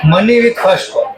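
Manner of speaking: each word spelled out very slowly for writing down; slow, deliberate dictation to the class. Shown as a demonstration. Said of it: "dictating a note to students".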